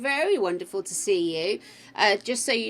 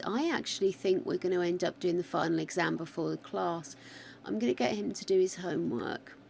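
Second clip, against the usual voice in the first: shaky wobbling voice while talking; wobbly voice; faster than usual. Real, not acted. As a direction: let the voice wobble a little. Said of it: "Excuse my wobbly voice".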